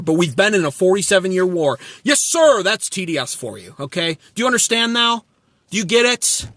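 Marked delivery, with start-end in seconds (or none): 2.0-2.6 higher, eager yes-man voice with sarcasm; a fawning supporter thanking Trump; mocking loyal follower. Mock supporter again.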